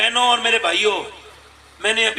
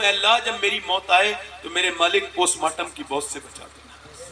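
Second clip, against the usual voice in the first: tearful prayer; 3 semitones lower than usual. Retold or imitated. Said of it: "میں اس وجہ سے رو رہا ہوں".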